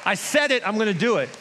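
God insisting he has no choice; voicing God, insistent. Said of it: "God's like".

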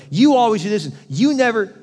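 a mock accusation; accusing. Shown as a demonstration. Spouse blaming spouse, mock accusing. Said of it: "avoid accusatory language like".

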